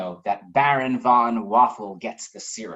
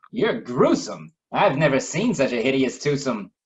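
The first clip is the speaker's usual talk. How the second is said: a hint of a haughty baron; Baron von Waffle's verdict; 4 dB louder than usual. Waffle bluntly insults his hosts, mildly haughty.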